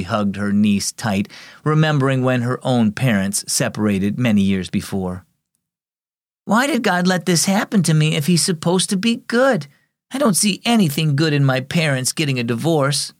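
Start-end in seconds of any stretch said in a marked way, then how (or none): 6.4-13.1 put-on a touch of a fierce, upset girl, voice lifted higher. Girl protesting to her aunt about the divorce, mildly fierce. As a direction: push the question out with hurt defiance, understated. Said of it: "Sophia said fiercely".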